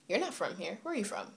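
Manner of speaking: matter-of-fact challenge, imitated; not amazed. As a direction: question them without any amazement. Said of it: "like, amazement. It's like".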